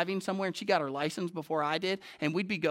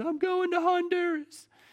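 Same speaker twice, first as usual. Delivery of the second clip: tearful, sobbing, very high voice; 11 semitones higher than usual. Retelling how Sarah came home in tears, imitating Sarah sobbing. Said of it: "sobbing when she comes in and she goes".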